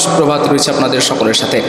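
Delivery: reverb like an empty room; echo. Shown as a demonstration. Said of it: "এটা হচ্ছে কিন্তু ইকো mode".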